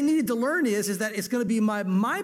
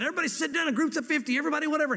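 flustered disciple; 6 semitones higher, much faster than usual. Retold or imitated. Disciples flustered, relaying Jesus' order.

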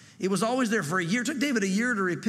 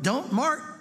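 God warning Mark; 6 semitones higher than usual. Retold or imitated. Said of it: "God is speaking to us saying".

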